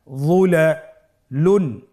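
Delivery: যুলালুন drawn out slowly; careful slow demo; slow blended reading. Shown as a demonstration. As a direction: join the syllables slowly. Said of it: "ভেঙে ভেঙে পড়তে হয়".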